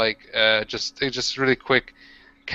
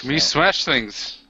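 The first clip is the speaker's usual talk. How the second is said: orc voice; much slower than usual. Acted. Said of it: "I'm like".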